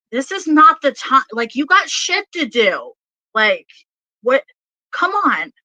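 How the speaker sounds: exasperated acted scolding, pitch jumping up; channelled yelling. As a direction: scold on behalf of an impatient spirit. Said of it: "this person's yelling at me".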